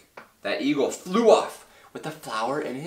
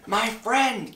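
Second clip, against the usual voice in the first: high-pitched tiny character voice; small speck voice; 11 semitones higher than usual. A narrator's reading. Tiny mayor greets his friend Horton, high small voice. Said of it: "came the voice".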